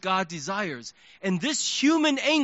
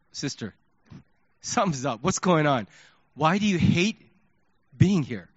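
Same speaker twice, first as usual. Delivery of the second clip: gentle concern; 5 semitones lower than usual. Retold or imitated. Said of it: "I approached her and said".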